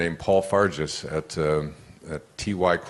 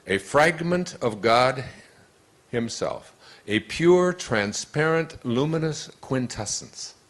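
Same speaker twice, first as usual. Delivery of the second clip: reading a quote; 5 semitones higher than usual. Acted. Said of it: "He says".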